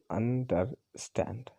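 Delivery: अंडरस्टैंड slowly, syllable by syllable, weight on स्टैंड; slow teaching demo of अंडरस्टैंड, stressing स्टैंड; stress on last syllable. Shown as a demonstration. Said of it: "एक stress syllable होगा".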